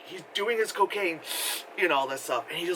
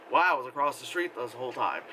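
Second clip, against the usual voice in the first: deadpan; 4 semitones lower than usual. Retold or imitated. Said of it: "it was also like".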